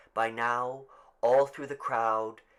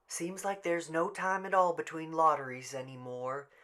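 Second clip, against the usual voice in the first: Mrs Delacroix voice; 6 semitones higher than usual. Acted.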